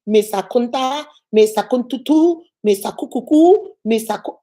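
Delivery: mock the name as "Akunta, Akuntutu, Akukuku"; mispronounced name. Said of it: "every time she mispronounced my name".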